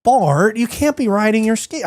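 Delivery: a hint of a cartoon mom scolding her son; Marge Simpson. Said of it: "Now do Marge Simpson".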